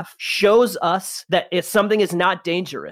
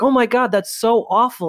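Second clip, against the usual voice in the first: mock dismay; 6 semitones higher than usual. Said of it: "everybody's like".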